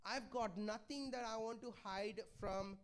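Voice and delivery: slow, earnest plea to open up; pleading. Retold or imitated. Preacher voicing Paul begging the church, slow and earnest. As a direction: gently beg them not to shut the door. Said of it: "he's pleading with them".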